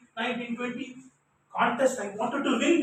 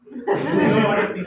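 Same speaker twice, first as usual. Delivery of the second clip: laughing; 7 dB louder than usual. Real, not acted. Laughing while telling.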